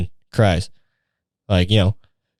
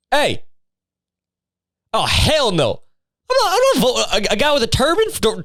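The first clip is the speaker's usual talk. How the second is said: mock racist tirade; 2 semitones higher than usual. Co-worker imagines a bigot ranting at the break room table, mock rant. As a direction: play the imagined redneck co-worker spouting off, half-joking. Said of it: "dives into a racial, uh, a racial tirade".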